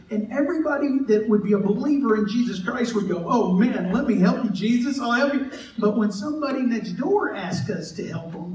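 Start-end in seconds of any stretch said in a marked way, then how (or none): 3.3-5.5 slightly raised, mock-eager offer; eager volunteering. Believer offering Jesus help, mock-eager.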